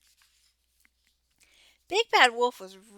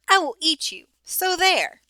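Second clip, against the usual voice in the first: mock roar; 7 semitones higher, 4 dB louder than usual. A narrator's reading. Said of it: "he roared".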